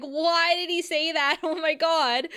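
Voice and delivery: high, laughing disbelief; shocked disbelief. Retold or imitated. Viewer reacting to Angel's line, laughing in disbelief. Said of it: "it's like".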